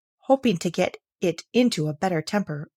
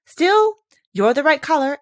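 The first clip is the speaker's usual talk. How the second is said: very high, louder patronising squeak; a patronising rose, pitched up high; condescending rose; 9 semitones higher, 7 dB louder than usual. Acted. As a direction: look down on her sweetly. Rose's condescending judgement.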